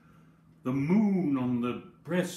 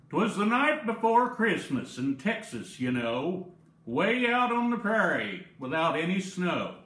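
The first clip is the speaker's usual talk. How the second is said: Texas style; 2 semitones higher than usual. Acted. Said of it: "read it in the colloquial language".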